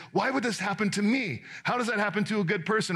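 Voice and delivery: lightly acted indignant questioning; mock self-righteousness. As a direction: imitate a wronged good person protesting. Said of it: "the most self-righteous statements we can make".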